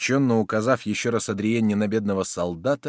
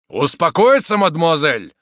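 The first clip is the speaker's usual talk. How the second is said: loud, high cry of despair; despairing exclamation; 7 semitones higher, 9 dB louder than usual. A narrator's reading. Soldier told to be calm, despairing exclamation. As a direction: throw the word back in desperation. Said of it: "воскликнул с отчаянием Дагобер".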